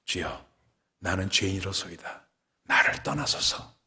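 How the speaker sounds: soft, humbled confession; hushed penitent prayer, slowing into breath; kneeling plea. Acted. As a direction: plead softly, on your knees before the Lord. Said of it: "무릎을 꿇으면서".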